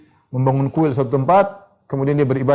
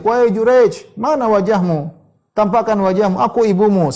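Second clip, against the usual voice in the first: high, loud pleading call; mother shouting; 7 semitones higher, 3 dB louder than usual. Retold or imitated. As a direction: cry out for your son to show his face. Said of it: "Dia teriak".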